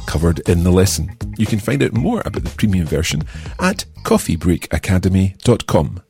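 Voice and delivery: upbeat promo announcer read. Acted. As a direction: sell the premium course brightly. Premium course advert read.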